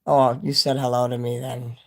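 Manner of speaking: talking around a retainer; wearing a retainer. Real, not acted. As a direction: retainer in the mouth. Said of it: "My retainer's bothering me here".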